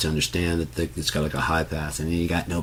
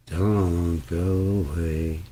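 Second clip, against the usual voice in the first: very slow, stretched-out "Don't go away."; slowed sample voice; much slower than usual. Retold or imitated. Imitating a lo-fi sample for a listener, drawn out slowly. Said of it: "that little "don't go away," very grainy".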